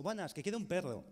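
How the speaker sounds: "perro" without a rolled R, "quiere" slurred like "quede"; mumbled child's order with a rough R; child with the speech impediment asking for a dog; lisping kid. Retold or imitated. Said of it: "Y digo".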